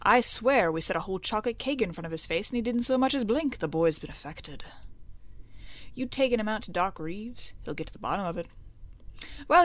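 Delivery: lightly voiced small-town gossip; a hint of fretting parent; worried townsfolk. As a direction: fret over the boy, mildly. Voices worried townsfolk about a boy.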